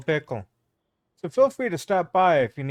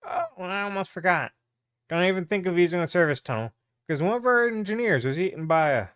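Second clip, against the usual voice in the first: raised, brisk official warning; officious guard, slightly higher and hurried; lightly voiced gate guard; 4 semitones higher than usual. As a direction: call out an afterthought warning as a guard.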